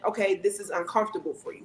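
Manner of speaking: understanding. Retold or imitated. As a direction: acknowledge it gently. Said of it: "me understanding".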